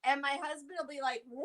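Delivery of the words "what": imitating a husband's panicked yelp; freaking out. Wife imitates husband panicking at a bug, freaking out. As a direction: draw it out in mock alarm. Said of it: "Freaking out".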